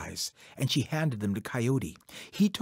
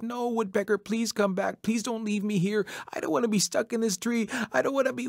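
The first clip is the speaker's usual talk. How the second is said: high-pitched, desperate begging; trapped coyote begging not to be left; panicked pleading; 9 semitones higher than usual. Acted. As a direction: plead frantically, high and hurried. Trapped Coyote begs Woodpecker.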